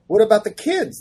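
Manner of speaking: hammed-up dismayed wail; distraught. Writer retelling his first thought for the characters, mock distraught. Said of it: "And I was distraught".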